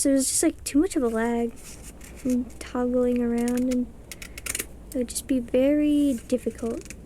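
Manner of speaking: talking with a retainer in; words slightly slurred by a retainer; wearing a retainer. Real, not acted. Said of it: "Oh, I said it strange? ... I have my, uh, retainer in".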